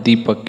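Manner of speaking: दीपक with the ee held long. Shown as a demonstration. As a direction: stretch the दी in दीपक. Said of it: "ज़्यादा लंबा थोड़ा सा खींचना हो रहा है".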